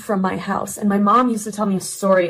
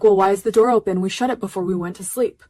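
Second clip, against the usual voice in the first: protest; 5 dB louder than usual. Retold or imitated. Retold protest to friend.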